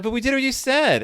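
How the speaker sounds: very high, fast, loud indignant whine; mock kids protesting. Kids protesting to the girl, high indignant whine. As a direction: squeal it like wronged children. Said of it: "And they're like".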